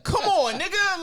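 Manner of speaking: high, loud mock plea; exasperated plea. Complaining about coworkers using the office toilet, high and loud.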